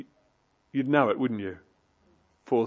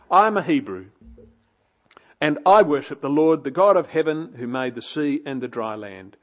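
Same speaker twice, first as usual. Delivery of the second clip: Jonah's confession; 3 dB louder than usual. Retold or imitated. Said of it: "He says".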